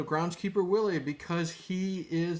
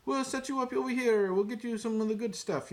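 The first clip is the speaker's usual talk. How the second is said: high, eager Italian host voice, lightly done; a light impression of a chatty Italian restaurateur; Italian restaurant owner; 6 semitones higher than usual. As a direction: play a friendly Italian waiter seating guests. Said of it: "you know, that guy".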